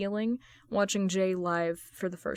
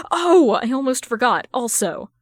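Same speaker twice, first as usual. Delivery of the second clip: loud sudden gushing; excited superfan; 4 semitones higher, 9 dB louder than usual. Acted. Fan club vice president remembering something, loud and gushing. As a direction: blurt it out all at once.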